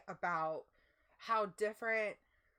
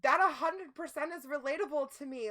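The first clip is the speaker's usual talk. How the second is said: loud, higher, still laughing; 6 semitones higher, 8 dB louder than usual. Real, not acted. Host reacting to a chat song cue, laughing loudly. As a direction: burst in laughing at the chat joke.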